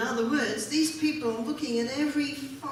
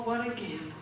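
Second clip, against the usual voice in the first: usual speaking voice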